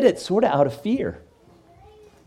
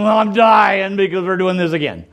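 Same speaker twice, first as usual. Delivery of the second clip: put-on whiny teenager complaining, a bit louder; hammed-up bored teen protest; mock teen groan; 4 semitones higher, 4 dB louder than usual. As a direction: play the eye-rolling thirteen-year-old. Teen groaning at family tradition.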